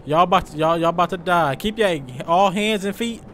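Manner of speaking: loud, teasing call to the passengers; playful shouted warning. Pretend. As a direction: yell it like a prankster pilot. Warning passengers mid-flight.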